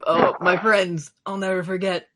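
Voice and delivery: high jovial hero voice; hearty strongman voice. Acted. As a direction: reminisce heartily, chuckling. GM voices Ondir again.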